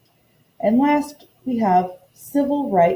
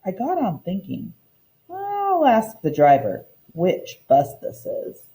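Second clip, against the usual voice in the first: expressive read-aloud storytelling for a class; story narration. A narrator's reading. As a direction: read the picture book aloud to the children, lively. Teacher reads storybook aloud.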